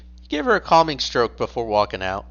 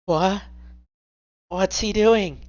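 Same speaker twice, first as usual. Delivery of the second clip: higher, puzzled questioning; confused surprise; 7 semitones higher, slower than usual. Acted. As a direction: sound baffled by his hug. House confused by the hug.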